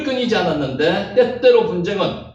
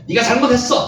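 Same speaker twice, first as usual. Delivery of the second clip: raised, higher accusing voice; acted rebuke, pitched up; mock scolding; 5 semitones higher than usual. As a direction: scold briefly, as an example. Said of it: "막 꾸짖는 이런 의미가 아니라는 거죠".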